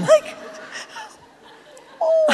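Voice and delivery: high giggling oh; breaking into laughter; laughing. Real, not acted. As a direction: laugh through the words. Laughing at her own story.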